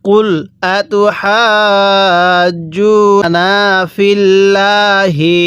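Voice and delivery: slow, drawn-out tajweed chant; Quran recitation. Shown as a demonstration. Teacher recites the verse for students, slow tajweed chant. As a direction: intone each syllable slowly like a reciter. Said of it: "এরকমভাবে শিখব".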